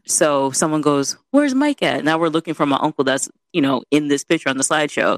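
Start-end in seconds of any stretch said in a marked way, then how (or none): 1.3-2.0 imitated call-out. Quotes someone calling out in church.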